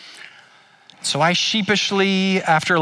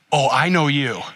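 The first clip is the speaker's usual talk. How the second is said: knowing, not friendly. Retold or imitated. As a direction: say "I know you" flat, as if you know his failure. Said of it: "it wasn't like that kinda good".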